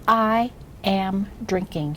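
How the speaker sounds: slow, word-by-word read-aloud; each word drawn out and separated; model reading. Shown as a demonstration. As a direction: read it very slowly for a beginner to echo. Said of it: "I read first, and then you read after me".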